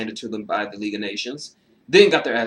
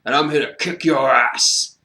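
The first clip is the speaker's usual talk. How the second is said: a loud put-on rock-legend growl at heaven's gates; mock tough-guy rocker boast, louder; hammed-up rock-star toast; 5 semitones higher, 7 dB louder than usual. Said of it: "you say".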